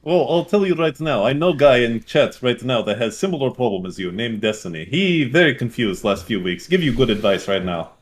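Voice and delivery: put-on lightly broken-English Russian accent. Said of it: "like, a Russian voice".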